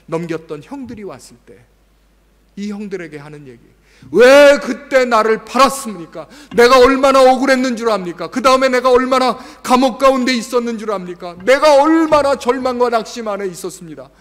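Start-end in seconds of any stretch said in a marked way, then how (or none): 4.1-14.1 높고 크게, 천천히 따지는 억울한 항변; loud, high, aggrieved demand of the brothers; resentful accusation. Pretend. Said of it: "이렇게 얘기하는 것이 아니라". (형들에게 크게 따지며 억울함을 터뜨리는 목소리)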